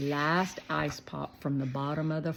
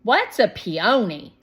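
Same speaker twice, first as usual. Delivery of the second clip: put-on high, louder boy asking; a curious kid's question, pitched up; curious little boy; 4 semitones higher, 10 dB louder than usual. A narrator's reading. Shake asks Shermie about the flower, high curious boy.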